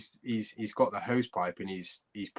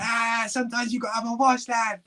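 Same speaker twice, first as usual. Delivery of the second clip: high mock voice of a toothless Scouser; toothless teammate impression; 12 semitones higher than usual. Teammate with no teeth explaining his hose pipe wash, high and mocking. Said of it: "with no teeth".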